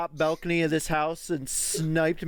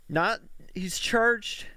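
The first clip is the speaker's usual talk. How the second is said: "charged" picked out higher and slow; stress on charged; 6 semitones higher, much slower than usual. Real, not acted. Host clarifying the legal status, stressing "charged". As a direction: lean slowly on "charged". Correcting charged versus sentenced.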